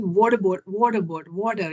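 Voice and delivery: water with an American tapped t and r; American pronunciation, "wadder" with a sounded r; American accent. Retold or imitated. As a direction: imitate an American saying "water". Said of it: "The water is American".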